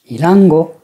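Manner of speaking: "Irango" stepping up after the first mora and staying up; flat pitch accent. Shown as a demonstration. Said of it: "le mot devient plat".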